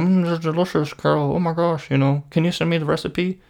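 lightly voiced coworker, high and sugary; mock sweet praise. Coworker pretending to love Carol's churros, high and sugary.

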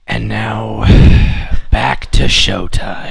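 slow, drawn-out showman's return; bad Beetlejuice. Resuming the ritual after banter, bad Beetlejuice. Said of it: "I'm doing a bad Beetlejuice".

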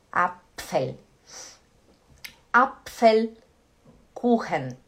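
"Apfel" and "Apfelkuchen" very slowly, with a popped pf; teacher's slow model of "Apfelkuchen"; syllable-by-syllable demo. Shown as a demonstration. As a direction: break "Apfelkuchen" apart, puffing the pf. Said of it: "Fala assim, ó".

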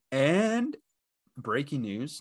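announcer voice for breaking news; mock news anchor. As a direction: play it like a news alert. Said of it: "not really breaking news".

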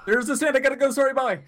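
panicky character voice. Retold or imitated. Mock fleeing character.

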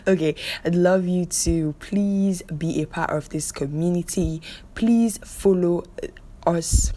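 a light imitation of a radio host's slow plea; lightly voiced presenter impression; Chizzy Duru voice. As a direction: mimic a celebrity host, drawn-out please. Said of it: "in Chizzy Duru's laughs voice".

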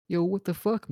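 retold outraged yell; mock outrage. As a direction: blurt it out in indignant disbelief. Retelling his outburst after hang-up.

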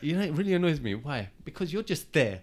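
mock-exaggerated echo of a friend's complaint; mocking replay. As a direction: parrot his grumble back to him for a laugh. Mocks friend's complaint back at him.

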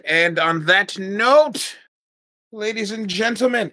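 slow, high, drawn-out host flourish; showman sign-off. Acted. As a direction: announce it like a game show host.

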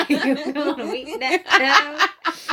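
very slow, laughing Southern drawl; American Southern accent. Acted. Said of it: "American Southern accent".

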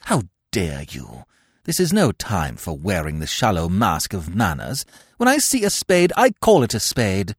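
high, loud, fiery tirade; indignant outburst. Acted. Cecily rounding on Gwendolen, loud indignant tirade. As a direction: let your temper fly.

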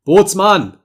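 captain's high, loud summons; overloud call. A narrator's reading. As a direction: shout for the bosun across the deck. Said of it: "rief der Kapitän überlaut". (überlauter Ruf des Kapitäns)

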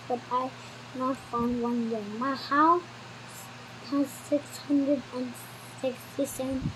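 a hushed reading of a grand letter; reading the letter in a low hush; soft letter reading. A narrator's reading. Reading the Duke's letter aloud.

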